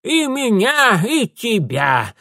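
high shout falling back; lightly voiced old woman agreeing; agreeing crone. A narrator's reading. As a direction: cheerfully agree. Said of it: "согласилась старуха".

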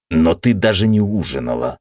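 plain reading voice

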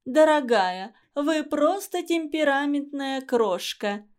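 slow, sugary affected teacher voice; affected teacher mimicry. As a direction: coo it like a mannered teacher. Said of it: "передразнивала жесты и голос мисс Вендикс". (жеманно, передразнивая учительницу)

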